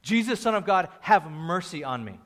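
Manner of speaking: imitated plea, not a full yell; mock yell. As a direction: call out to someone passing, held back. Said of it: "yelling from the top of his lungs".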